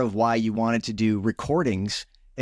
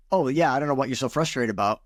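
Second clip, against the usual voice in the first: dismissive quip; faster than usual. Retold or imitated. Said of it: "Well, yeah, they're frustrated".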